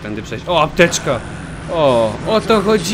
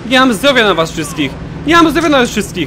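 raised, higher voice, fed up with them all; exasperated yelling; 9 semitones higher, 5 dB louder than usual. Real, not acted. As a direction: complain loudly, pitch climbing. Exasperated yelling at game enemies. (zirytowane, podniesione wołanie)

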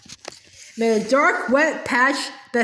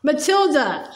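roaring name; slower than usual. Acted. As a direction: call "Matilda" out like a mild roar. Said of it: "she roared".

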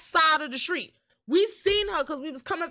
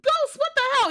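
retold yell; 7 semitones higher, 5 dB louder, faster than usual. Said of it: "I'm like".

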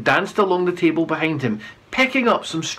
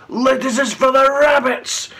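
loud, higher yell; 8 semitones higher, 3 dB louder than usual. A narrator's reading. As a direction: yell the insult. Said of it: "yelled one man".

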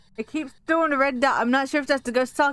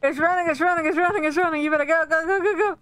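urgent warning; 5 semitones higher than usual. Real, not acted. Warns teammate as ghost hunts.

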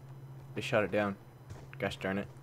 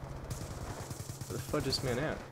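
slow hushed whisper; 8 dB quieter, slower than usual. Real, not acted. Gamer stalking an enemy, slow hushed whisper. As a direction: breathe it out slowly. Hunting quietly.

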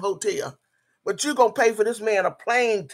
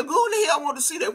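outraged fast shout; angry shout; 6 semitones higher, faster than usual. Real, not acted. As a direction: yell it out in disbelief. Angry rant at a woman online.

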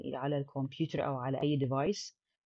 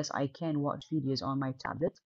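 slow reading; 2 semitones lower, 3 dB quieter, much slower than usual. Shown as a demonstration. Teacher reading the textbook dialogue to students, slow and clear. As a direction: read "do you have a computer to do your homework" slowly and clearly. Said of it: "reads textbook dialogue aloud".

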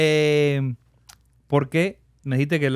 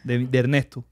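quiet inner thought; 5 semitones lower, 5 dB quieter than usual. Retold or imitated.

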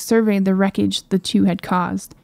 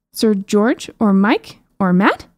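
slow, drawn-out rising question; lightly voiced princess, baffled by the names; puzzled princess; slower than usual. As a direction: princess echoes the names back, slowly and puzzled.

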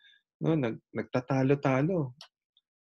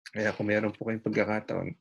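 gentle Christian. Retold or imitated. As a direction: answer the driver humbly and kindly. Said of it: "Ang sabi niya".

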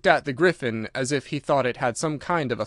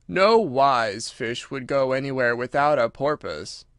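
slow, deliberate creature voice; Mock Turtle, ponderous; slower than usual. Mock Turtle instructs Alice, slow and ponderous. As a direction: state it as drawn-out wisdom.

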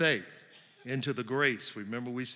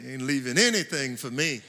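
laughing; 4 dB louder than usual. Real, not acted. Laughing after own joke.

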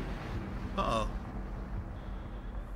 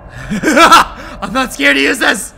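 loud, slow, drawn-out threat; hammed-up brave warning; mock bravado; 3 semitones higher, 12 dB louder, much slower than usual. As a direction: shout it to scare off monsters. Bluffs bravely with toy block.

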